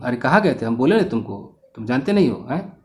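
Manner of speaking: everyday Hindi in a Bihari accent. Shown as a demonstration. Teacher showing students what a Bihari tone is, Bihari accent. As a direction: demonstrate the Bihari accent with its local lilt. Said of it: "This is called Bihari accent".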